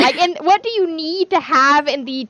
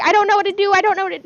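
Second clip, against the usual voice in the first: higher, louder mock panic; panicking Hermione; 8 semitones higher, 5 dB louder, faster than usual. Fan retelling Hermione caught in the devil's snare, panicky. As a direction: imitate a flustered girl in a panic. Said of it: "Hermione's panicking, and she's panicky".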